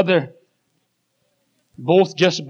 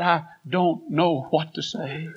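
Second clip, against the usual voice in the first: slow, softer, faltering words; choked quiet; 3 semitones lower, 6 dB quieter, slower than usual. Acted. Preacher voicing the wife too choked to speak, quiet. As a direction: barely get it out. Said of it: "she couldn't even say it".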